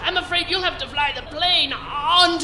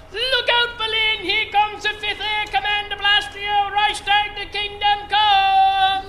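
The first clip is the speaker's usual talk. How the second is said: excited; 4 semitones higher than usual. Acted. Pilot cheers bombing run.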